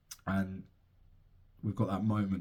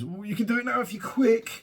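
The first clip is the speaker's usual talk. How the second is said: much higher, cheeky voice for the wife; playful imitation of the wife, pitched way up; mock wife voice; 13 semitones higher, 5 dB louder than usual. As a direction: squeak it out like his cheeky partner. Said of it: "she goes".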